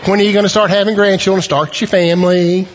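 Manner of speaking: lightly voiced pushy parent; mild nagging parent. A hint of parents pressing newlyweds for grandchildren. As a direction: nudge the couple like an eager parent. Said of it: "usually what parents ask".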